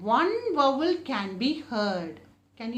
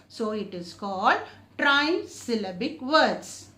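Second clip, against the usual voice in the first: normal talking voice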